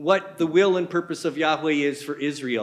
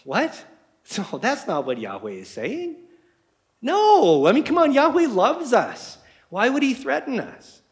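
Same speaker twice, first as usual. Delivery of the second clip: indignant objection; 7 semitones higher than usual. Retold or imitated. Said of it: "all the other prophets are going".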